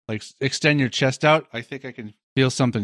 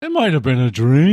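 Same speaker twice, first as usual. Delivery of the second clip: light mock French accent; a dreamy hint of French accent; 5 dB louder than usual. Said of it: "Hence my French accent".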